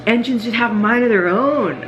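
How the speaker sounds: high, fast, breathless enthusiasm; excited gushing. Retold or imitated. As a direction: gush like an engine nerd. Mechanic gushing about engine problems.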